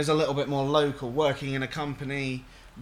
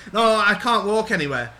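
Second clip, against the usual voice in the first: higher, louder mock protest; imitated helpless caller; 4 semitones higher, 6 dB louder than usual. Mimicking an elderly caller refusing a home visit, mock helpless. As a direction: insist helplessly, like a put-upon old customer.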